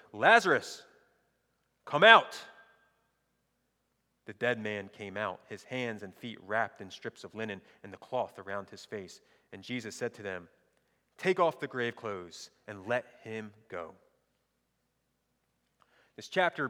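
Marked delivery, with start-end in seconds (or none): 0.1-2.4 commanding shout, rising in force; big, raised-voice command; loud call. Acted. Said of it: "called in a loud voice". 4.2-14.0 measured Bible reading aloud; narrated reading with lightly voiced dialogue; scripture reading. Reads scripture aloud to congregation.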